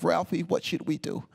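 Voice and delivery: lightly put-on New York wife; imitated New York accent. New York wife consulting her husband, imitated New York accent. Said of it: "they really sound like that?".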